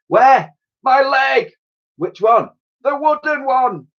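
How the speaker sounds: high, loud alarmed cries; panicked exchange. Acted. Admiral and Doshy, alarmed shouting. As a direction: rattle off in alarm.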